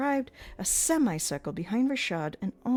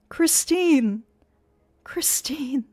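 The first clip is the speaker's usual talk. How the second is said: calling out; 8 semitones higher, 6 dB louder, much slower than usual. Acted. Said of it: "he moaned".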